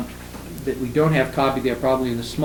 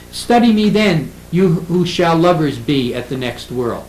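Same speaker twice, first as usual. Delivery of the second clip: poetry recitation; 2 semitones higher, 3 dB louder than usual. Shown as a demonstration. Lecturer quotes Saint Lucy's Day, reciting.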